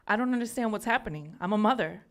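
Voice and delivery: pushing words out through tears; crying. Real, not acted. Reading her poem at an open mic, crying through the words. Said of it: "I repeat and repeat until I stop crying".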